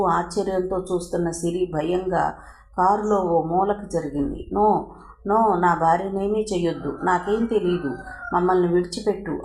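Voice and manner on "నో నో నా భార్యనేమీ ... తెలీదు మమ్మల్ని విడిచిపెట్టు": desperate shout. Acted. Husband begging the smuggler to spare his wife, crying out. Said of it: "అంటూ అరిచాడు".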